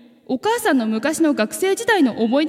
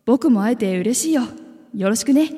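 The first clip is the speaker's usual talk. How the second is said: gentle calm tone. Acted. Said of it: "優しく穏やかな口調で言いました".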